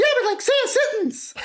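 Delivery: flips suddenly into a high falsetto. Showing the other speaker that anyone can do it, in a Mickey Mouse falsetto voice. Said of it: "it's pretty much just talking a falsetto voice".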